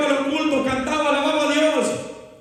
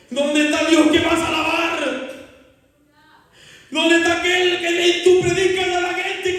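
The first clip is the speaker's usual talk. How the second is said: mocking accusing voice; 3 semitones higher than usual. Inner voice taunting the grieving daughter about God, mocking. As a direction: throw the doubts at her like a tormentor. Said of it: "una voz que me decía".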